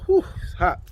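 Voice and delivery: blowing on hot food; talking round a hot bite; hot food in mouth. Real, not acted. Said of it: "You just burnt your tongue".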